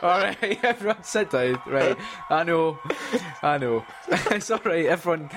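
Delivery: greeting a cheering crowd, laughing; stand-up comic. Pretend. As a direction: settle the crowd down.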